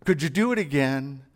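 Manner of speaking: low, sheepish admission; clueless trainee. Retold or imitated. Trainee confessing to the trainer, low and sheepish. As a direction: own up that you weren't listening. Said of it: "And you're going".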